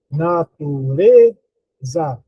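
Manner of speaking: "natureza" slowly sounded out with a long "re"; slow demo of "na-tu-REEE-za"; stress on RE. Shown as a demonstration. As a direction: stretch "re" in "natureza", then drop "za". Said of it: "Mais forte é o re".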